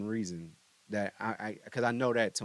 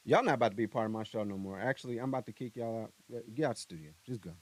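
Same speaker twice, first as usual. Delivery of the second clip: mock kicking out; faster than usual. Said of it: "they don't listen to me".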